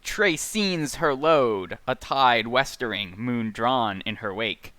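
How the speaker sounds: slow, measured, rolling recitation; literary read-aloud. Acted. Podcaster reciting dense prose to co-hosts, slow literary read-aloud. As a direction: linger on each word, pausing between verbs. Reads novel passage aloud.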